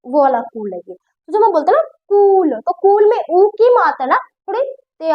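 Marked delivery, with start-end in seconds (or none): 2.1-2.5 कूल with a lengthened u; long drawn-out u. Shown as a demonstration. Teacher demonstrating the long matra, कूल stretched out. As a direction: hold the u in कूल. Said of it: "मतलब ज्यादा लंबी खिंचती जा रही है".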